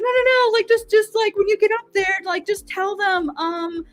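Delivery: high, eager coaxing voice; urging friend. Retold or imitated. New friend urging her to ask.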